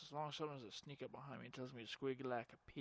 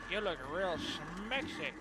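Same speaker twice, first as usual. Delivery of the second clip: slow mock flirty; 4 semitones higher, 8 dB louder, slower than usual. Repeat of flirty line.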